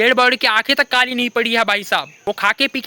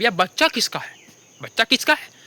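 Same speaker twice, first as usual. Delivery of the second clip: mock soap drama. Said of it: "एक चीज हर बार होती थी".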